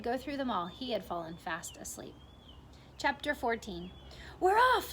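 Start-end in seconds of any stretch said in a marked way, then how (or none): 4.4-4.9 high, loud excited shout. A narrator's reading. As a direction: yell it out, the trip is starting. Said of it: "someone was shouting".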